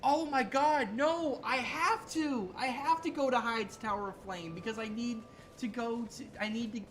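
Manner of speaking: loud, high panic about the route; panicked outburst. Real, not acted. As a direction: blurt it out in a rush of alarm. Streamer panics about game route.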